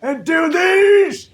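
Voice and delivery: loud, high, drawn-out demo; high-pitched voice. Shown as a demonstration. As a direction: push up to the top of the range and hold it. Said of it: "go to the top of here".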